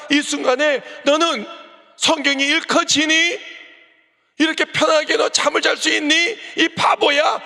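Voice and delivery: a father crying out at his blind daughter, building to a shout; pleading shout. Retold or imitated. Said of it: "딸을 향해서 소리치고 싶었지만".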